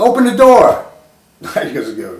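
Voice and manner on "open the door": high, louder imitated roommate demanding; hammed-up order to open up; mock angry demand. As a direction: bark it like a fed-up roommate at a locked door. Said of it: "he goes".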